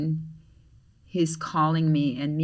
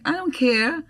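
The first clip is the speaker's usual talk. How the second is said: louder, higher teasing scold; mock scolding; 5 semitones higher, 7 dB louder than usual. Scolding a late friend at lunch, teasing. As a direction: wag a finger with your voice. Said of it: "I'm like".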